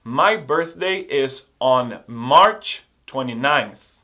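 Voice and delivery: slow model sentence. Shown as a demonstration. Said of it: "Por exemplo".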